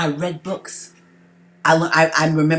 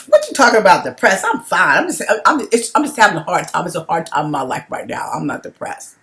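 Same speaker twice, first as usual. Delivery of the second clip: indignant denial; 6 dB louder than usual. Retold or imitated. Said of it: "I was like".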